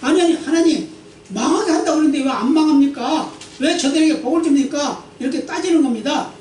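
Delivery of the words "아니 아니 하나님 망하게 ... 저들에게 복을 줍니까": 더 높고 크게, 억울해서 따져 묻는 목소리; 하나님께 항의하듯 흉내 내어 따지기; 따지듯 대드는 요나. Retold or imitated. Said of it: "하나님께 대들었어요". (하나님께 대드는 요나를 흉내 낸 높고 큰 항의)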